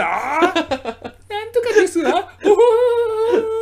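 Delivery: very high ojou-sama laugh, slow; hammed-up rich girl cackle; haughty rich girl japanese. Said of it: "キャラクターの喋り方".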